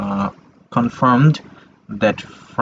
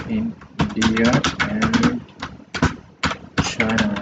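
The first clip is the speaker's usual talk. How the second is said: slow, drawn-out, pitched up on India; slow dictation; 4 semitones higher, slower than usual. Shown as a demonstration. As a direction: spell it out slowly while writing. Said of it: "Let me put it".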